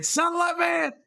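high, loud shout of the name. Real, not acted. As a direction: yell it out. Yelling a joke name.

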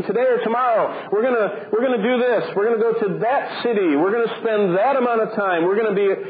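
boastful planners. Retold or imitated. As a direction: rattle off big plans like a smug businessman. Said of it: "He says".

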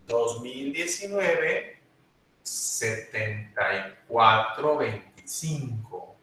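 slow, measured number dictation; dictating a number. Real, not acted. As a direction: read the digits out slowly, group by group. (dictando el número despacio)

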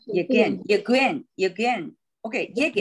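耶根 with the first syllable 耶 stressed. Shown as a demonstration. Teacher drills the right stress of lleguen. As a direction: lean on 耶 in 耶根. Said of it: "就应该是耶根".

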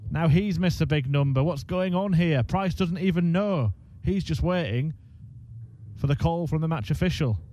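can't believe what he's seeing; excited commentary. Real, not acted. Commentator stunned by shock collapse.

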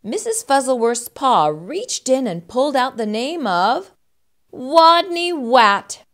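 expressive picture-book narrator; children's story narration. A narrator's reading. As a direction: read it to young children, building to the name.

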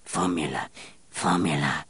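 rasped. Acted. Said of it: "rasped Grenouille".

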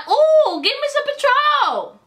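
high, squealing party voice; drunk excitement. Retold or imitated. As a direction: act out her tipsy self begging for tequila. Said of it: "my turned up ass was like".

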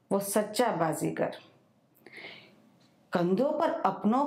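measured recital in short phrases with pauses; poem recitation. Acted. Banker presenting her own new poem to an audience, measured recitation. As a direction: recite line by line, letting each phrase fall.

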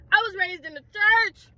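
high, indignant cry; indignant protest. Acted. Preacher's kid facing arrest, high-pitched indignation.

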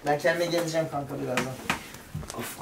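soft breathless after anxiety attack; shaky after panic. Real, not acted. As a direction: speak weakly, still recovering. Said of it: "anksiyetiyle başa çıkmak çok zor".

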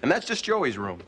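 upbeat military radio host. Acted. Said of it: "Good morning, troops".

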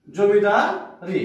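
slow repeat. Shown as a demonstration. Teacher repeating জমিদারি slowly for students so the ই ending comes through. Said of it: "ই উচ্চারণ করছি".

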